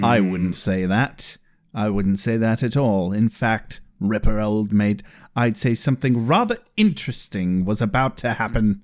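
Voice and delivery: low, dark villain monologue; brooding villain soliloquy. Retold or imitated. Hidden figure taunting Giles, low brooding villain voice. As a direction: brood over it like a lurking villain. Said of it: "dark brooding soliloquy".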